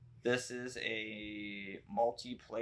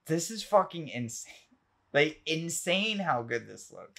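excited rave, pitched up and stretched on "insane"; real amazement; 6 semitones higher, 4 dB louder than usual. Real, not acted. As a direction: gush in genuine disbelief. Raving about a surprise remake.

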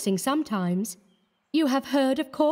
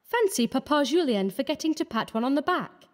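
put-on high, merry young woman's voice; light merriment in a high feminine character voice. A narrator's reading. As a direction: tell it with amused relish, pitched way up. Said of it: "she continued with much merriment".

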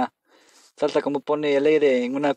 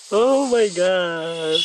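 awed oh my God; 6 semitones higher, 4 dB louder, much slower than usual. Real, not acted. Reacting to eerie music.

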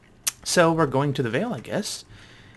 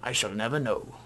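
weird, lofty scholar voice, lightly put on; pompous traveller telling a tale; Sathos. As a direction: hold forth grandly as a self-important explorer. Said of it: "I don't know why I gave him that voice".

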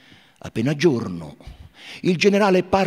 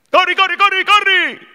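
high, loud shouted urging; shouting; 6 dB louder than usual. Acted. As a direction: yell at him to run, much higher and louder. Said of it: "gli gridano i bracchieri".

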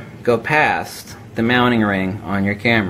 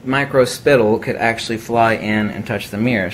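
side-of-mouth speech, lips barely open; talking out of mouth corner. Real, not acted. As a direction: speak from the corner of your mouth. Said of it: "I'm talking out of the corner of my mouth".

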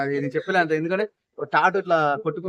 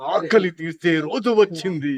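menacing ghost villain. Acted. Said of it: "అమ్మాలే".

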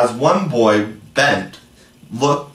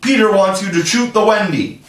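much higher, louder shrill fairy call; fairy's ringing reply; 10 semitones higher, 4 dB louder than usual. Acted. Jealous Tinker Bell tricks the boys, much higher louder fairy cry. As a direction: ring it out like a jealous little fairy. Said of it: "Tink's reply rang out".

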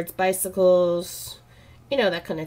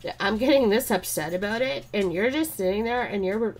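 retold upset protest; 3 semitones higher than usual. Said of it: "I felt like he was brushing me off".

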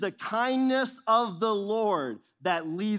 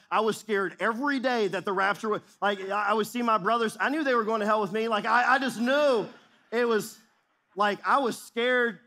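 louder and higher, urgent; rising alarm; 4 semitones higher, 4 dB louder than usual. Real, not acted. Pastor recalling teenage fear, louder and higher. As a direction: build the panic as you go.

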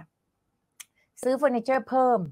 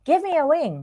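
higher-pitched, separated chunk for repeating; phrase-by-phrase model; 6 semitones higher, much slower than usual. Shown as a demonstration. Teacher modelling a phrase for students to repeat, clearly separated. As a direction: say just this phrase clearly, then stop. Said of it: "ลองพูดดูนะคะ".

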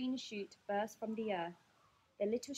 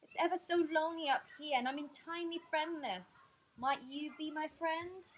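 higher-pitched shy appeal; bashful; 6 semitones higher than usual. Acted. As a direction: ask shyly for a friend. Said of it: "he said bashfully".

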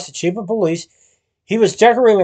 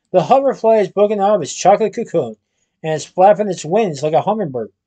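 teacherly tone. Acted. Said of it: "in his most teacherly tone".

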